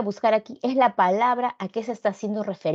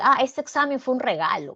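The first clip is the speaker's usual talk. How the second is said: higher, changed voice of a relieved student; pleased student; 5 semitones higher than usual. Acted. Student telling classmates the exam was easy, pleased and higher. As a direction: sound like the exam was a breeze.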